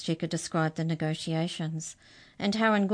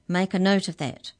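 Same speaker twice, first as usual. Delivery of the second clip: commanding; 3 semitones higher, 6 dB louder than usual. Acted. Majorette orders recorders.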